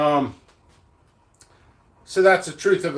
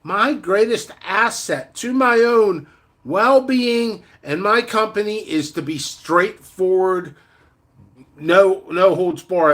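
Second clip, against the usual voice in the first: quoting enemies; slower than usual. Retold or imitated. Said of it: "my enemies ... told me".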